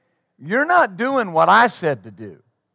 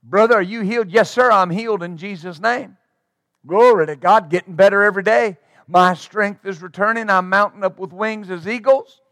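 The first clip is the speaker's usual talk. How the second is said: convinced. Retold or imitated. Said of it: "that'll be the attitude".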